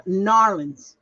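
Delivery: Narlands said as NAR-lands, two syllables. Shown as a demonstration. Showing viewers the local way, Narlands. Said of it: "I had to learn how to say Narlands".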